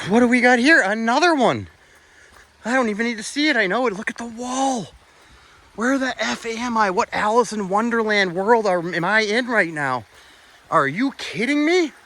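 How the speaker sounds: high, eager amazement; can't believe what he's seeing; excited disbelief. Real, not acted. Excited discovery, high pitch.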